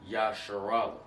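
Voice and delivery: Yasharallah slurred into one word; mispronounced Yasharallah. Shown as a demonstration. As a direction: say "Yasharallah" joined up, the R running into "allah". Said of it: "You don't pronounce this word".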